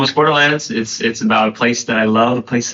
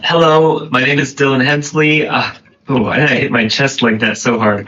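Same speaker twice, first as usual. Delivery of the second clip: blocked nose, talking through congestion; stuffy nose. Real, not acted. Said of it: "my nose is a little, little stuffed up".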